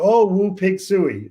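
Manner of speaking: high, loud, slow Hog call in a put-on French accent; mock French accent. Foreign fan hailing a Razorback runner, mock French accent. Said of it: "in a French accent or a Spanish accent".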